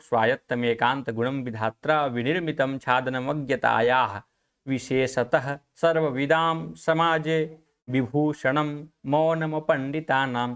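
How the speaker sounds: measured verse delivery, slowing through the second half; Sanskrit verse recitation. Shown as a demonstration. Teacher recites a famous shloka to students, Sanskrit verse recitation.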